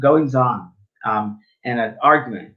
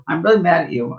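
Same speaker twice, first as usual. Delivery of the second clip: mock angry; 4 semitones higher, 3 dB louder than usual. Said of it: "She's really angry at me".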